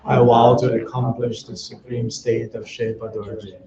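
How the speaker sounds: even, measured chant-like prayer reading; prayer recitation. Real, not acted. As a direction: recite the prayer steadily, line by line, on a level tone. Recites refuge and bodhicitta prayers.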